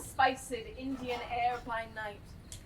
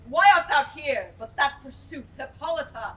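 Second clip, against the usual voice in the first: much louder, furious challenge; angry outburst; 9 dB louder than usual. Acted. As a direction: hurl it at him in anger. Titania quarrels with Oberon.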